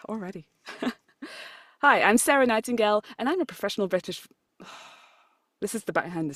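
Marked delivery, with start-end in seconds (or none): 1.8-4.3 outro read. Shown as a demonstration. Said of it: "I've written a script".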